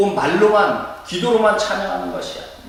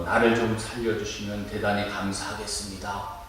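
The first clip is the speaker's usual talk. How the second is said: mock-calm request, low and subdued; softly understate a plea for rescue; quiet, polite plea; 6 semitones lower, 6 dB quieter than usual. Someone drowning politely asks to be saved, quiet and mock-calm. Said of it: "아, 조용히".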